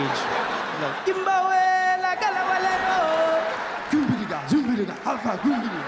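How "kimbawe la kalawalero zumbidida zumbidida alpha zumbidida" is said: high, loud mock chanting; caricatured tribal performer. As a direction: burst onstage with nonsense chant. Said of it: "a guy in leopard skin".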